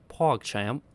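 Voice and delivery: questioning try at British; amateur British, lifting at the end; attempted British accent. Shown as a demonstration. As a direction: test out a shaky British accent. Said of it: "PogChamp in a British accent".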